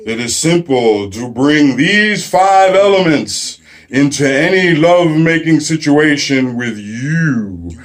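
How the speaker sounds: slow, solemn hermit intoning the elements; mock wise sage. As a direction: lay out the wisdom slowly like a hammed-up guru. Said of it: "And he says".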